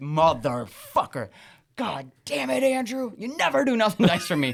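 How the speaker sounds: put-on furious voice. Retelling how a furious father cursed at his son: imitating an angry dad. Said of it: "The maddest I've ever seen a person".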